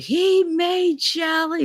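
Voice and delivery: high, slow, furious words; raging father. Retold or imitated. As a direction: spit it out like an enraged dad. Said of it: "he was like".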